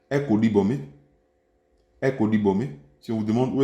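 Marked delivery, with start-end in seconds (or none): 0.1-0.8 "Echo libome" with pitch rising at the end; rising tune on Echo libome. Shown as a demonstration. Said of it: "l'intonation, elle est montante". 2.0-2.7 "Echo libome" with pitch rising at the end; rising tune on Echo libome. Shown as a demonstration. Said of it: "l'intonation, elle est montante".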